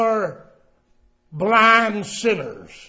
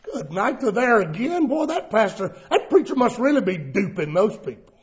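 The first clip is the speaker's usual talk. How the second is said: mocking laugh; 3 dB quieter than usual. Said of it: "they laugh. They say".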